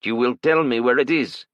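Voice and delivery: put-on cold threat, Asian accent. A narrator's reading. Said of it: "the attacker said".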